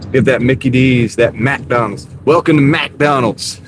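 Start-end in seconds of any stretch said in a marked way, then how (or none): 2.2-3.6 slow, sassy drive-thru greeting; drive-thru attitude. Shown as a demonstration. Driver mimics the drive-thru worker, slow and sassy. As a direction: drawl it like a bored cashier. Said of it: "You gotta say it with a little attitude".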